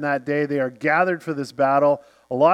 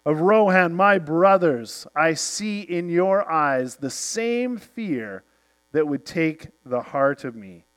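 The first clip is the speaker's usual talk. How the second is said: rallying speech. Retold or imitated. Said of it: "and he says".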